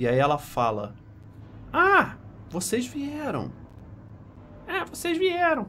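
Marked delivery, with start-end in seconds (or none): 1.7-5.6 put-on very high, tiny, girlish voice. Narrating a scene, voicing a character who looks up at the group: little girl voice. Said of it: "voz de menininha".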